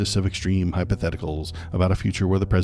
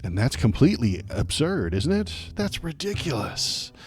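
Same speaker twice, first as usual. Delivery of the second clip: sarcastic; 6 semitones higher than usual. Acted. Sarcastically agreeing with the chief justice.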